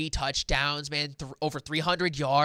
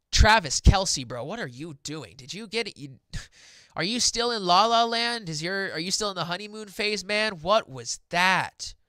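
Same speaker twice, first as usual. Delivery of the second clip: high-pitched mock telling-off of a player; incredulous fan ribbing, pitched up; exasperated scolding; 5 semitones higher, 5 dB louder than usual. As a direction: call him out in playful disbelief. Host scolds an absent player.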